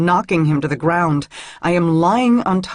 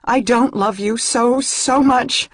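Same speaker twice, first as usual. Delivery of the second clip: high, loud, breaking denial; high, loud, tearful denial to her lover; 7 semitones higher, 4 dB louder than usual. Acted. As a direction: deny it while meaning the opposite. Tearful mock denial of love.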